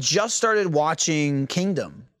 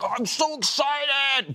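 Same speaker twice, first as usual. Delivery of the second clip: mock excited; 10 semitones higher, slower than usual. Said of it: "not because I'm like".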